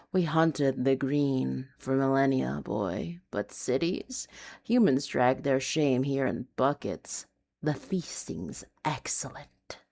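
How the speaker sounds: lightly voiced ancient wolf, ending in a whisper; wolf spirit voice. Spirit wolf speaking inside narrator's head, lightly dark. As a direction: let it settle into a dark whisper. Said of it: "Wolf chuckled and spoke a vibration in my spine".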